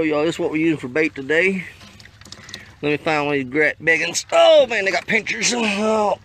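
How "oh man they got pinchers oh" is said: sudden loud, high yelp of surprise; startled. Real, not acted. Startled by a crawdad's pinchers, loud high yelp. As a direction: jump back at the pinchers.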